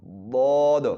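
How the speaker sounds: ضاد whispered with a heavy mouth shape; breath-only ضاد; whispered daad. Shown as a demonstration. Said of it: "یہ اس کا sound ہے".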